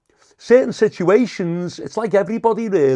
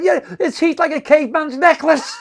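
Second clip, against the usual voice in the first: mocking jeer; 11 semitones higher, 6 dB louder than usual. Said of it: "I said".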